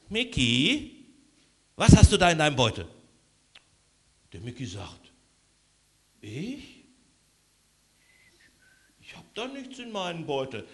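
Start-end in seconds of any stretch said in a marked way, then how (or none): 0.1-2.9 suspicious. Acted. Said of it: "guckt so ganz misstrauisch". 6.2-10.7 quiet fib. Acted. Micky denies, hiding the bag.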